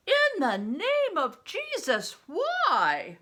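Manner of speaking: loud high exclamation; outraged. Acted. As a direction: demand an answer, aghast. Bear outraged at priest's death.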